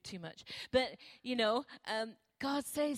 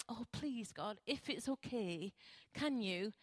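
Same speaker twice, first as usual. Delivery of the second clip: timid prayer; 4 semitones lower, 5 dB quieter than usual. Retold or imitated. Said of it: "sometimes I was like".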